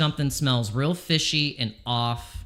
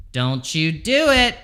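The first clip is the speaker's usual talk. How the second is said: louder, slower warning to the chart; mock stern warning; 3 semitones higher, 5 dB louder than usual. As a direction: scold it like a naughty child, louder.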